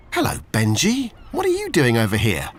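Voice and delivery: little Olivia saying hello; lightly voiced young girl. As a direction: greet the old dog like a cheerful little girl.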